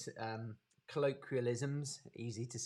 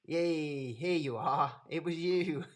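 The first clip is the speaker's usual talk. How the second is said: excited greeting; 4 semitones higher, 6 dB louder, slower than usual. Real, not acted. Greeting a student arriving late.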